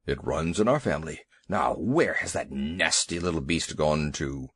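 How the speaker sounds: a huge elephant begging a small dog to leave; low fretful elephant voice; timid elephant. Acted. Elephant Two Tails voiced.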